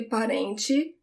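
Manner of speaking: "parente" ending in a soft "chee"; "parente" said pa-REN-chee; regional TE as "chee". Shown as a demonstration. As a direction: finish "parente" with a CHEE sound. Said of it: "the sound of the T E".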